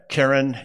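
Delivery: Keren said KEH-ren, with two eh vowels; Hebrew noun pronunciation. Shown as a demonstration. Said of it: "you can see the little vowel points".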